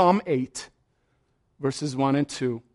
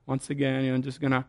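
mumbled, trailing-off, softer prayer; half-hearted prayer; 4 dB quieter than usual. Retold or imitated. Imitating a believer's weak, resigned prayer, lightly done. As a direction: sound like you've given up mid-prayer.

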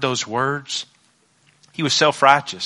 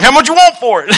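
high, laughing mock buyer; giggling imitation of an eager buyer; laughing quote; 11 semitones higher, 10 dB louder than usual. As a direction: ask it through laughter. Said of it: "he's like".

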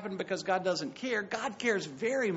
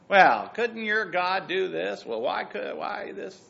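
mock complaint; 4 dB louder than usual. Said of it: "When we complain about Jesus".

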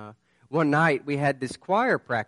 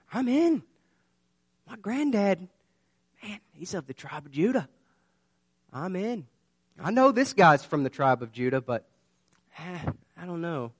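lightly voiced self-assured claim, higher at first; smug insider; 4 semitones higher than usual. Someone sure of his tribe claiming a place inside, a light high boast that falters. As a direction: brag about your lineage, then waver. Preacher voices confident believer.

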